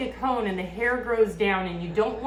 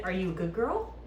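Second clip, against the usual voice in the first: squeaky praising a dog; 2 semitones lower, 6 dB quieter than usual. Real, not acted.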